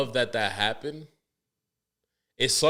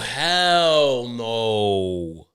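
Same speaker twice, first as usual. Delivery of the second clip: drawn-out, loud "oh hell no"; real outrage, slow and loud; outraged disbelief; 8 dB louder, much slower than usual. Real, not acted.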